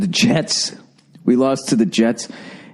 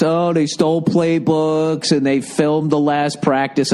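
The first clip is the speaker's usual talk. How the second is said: higher, drawn-out mock accusation; mocking accusers; 4 semitones higher than usual. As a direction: mimic the whiny accusers, slow and raised. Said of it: "lying your asses off".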